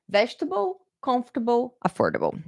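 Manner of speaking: vegetable, comfortable, affordable with reduced, unstressed endings; VEJ-tuh-bul, KUMF-tuh-bul, uh-FOR-duh-bul; correct pronunciation. Shown as a demonstration. Teacher recaps the three words, correct pronunciation. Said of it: "this is the right way to pronounce".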